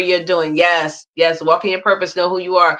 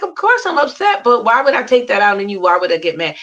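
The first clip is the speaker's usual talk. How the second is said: much higher, bright insistence, fading at the end; animated retort; 4 semitones higher, faster than usual. Retold or imitated. Guest retelling her reply to the purser, much higher and animated. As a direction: laugh it off, of course I'm upset.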